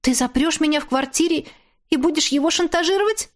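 high, fast incredulous question; shocked question. A narrator's reading. Captive woman asking her kidnapper in disbelief. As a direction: blurt out the horrified guess.

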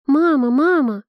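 loud, high cry for mama; children calling. Acted. Crying children in the carriage call for their mother, loud. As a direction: call out for mother through the window.

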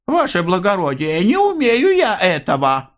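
high, pleading "ваше благородие"; frightened plea. A narrator's reading. Maria pleading with the officer, high and frightened. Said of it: "испуганно сказала".

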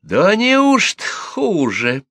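high, slow, loud retort; brazen challenge. A narrator's reading. Gossip stamps her foot at the widow, defiant. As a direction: throw it back defiantly, drawn out. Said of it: "Милку так подбросила".

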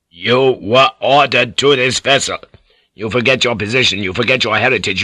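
forceful lordly reprimand; stern, mounting rebuke; angry scolding. Acted. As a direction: hammer the order, then rattle off accusations. Lord angrily scolding her.

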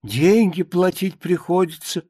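mildly aggrieved grumbling monologue; a touch of indignant lament; lightly voiced lamenting pious woman. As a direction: bemoan how life has gone, with emphatic stresses.

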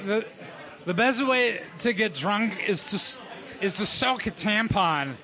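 lightly acted drunk, halting delivery; a hint of tipsy slurring, with pauses. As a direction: play mildly drunk, groping for words. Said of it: "your accent is drunk".

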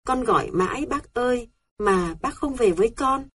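high, tearful call to a dead uncle. A narrator's reading. Girl calling her late uncle, tearful. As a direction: cry out for him, voice near tears. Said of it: "tôi bật khóc tu tu trên xe".

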